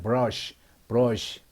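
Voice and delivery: 브러쉬 with the tongue pulled back, hanging loosely for R; demonstrated English R in 브러쉬. Shown as a demonstration. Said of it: "혀를 안으로 좀 당겨가지고".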